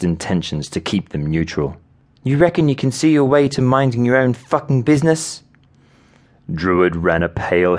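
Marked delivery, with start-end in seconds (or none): 2.2-5.4 high, fast, irritated rebuke; snapping. A narrator's reading. Woman telling nosy teammate off, snappish and quick. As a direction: rattle it off high, telling him off. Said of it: "she snapped".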